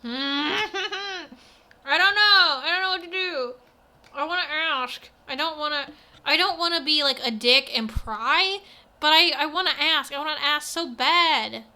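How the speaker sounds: laughing. Real, not acted. Player torn, laughing and agonizing.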